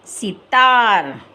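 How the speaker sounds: सितार with a short, clipped सि, drawn slow; सितार said slowly, the सि kept short; short i sound. Shown as a demonstration. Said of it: "ई की मात्रा का उच्चारण हम छोटा करेंगे".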